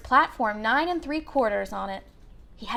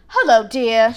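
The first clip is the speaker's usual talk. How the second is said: friendly mother; 6 dB louder, slower than usual. A narrator's reading. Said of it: "she said".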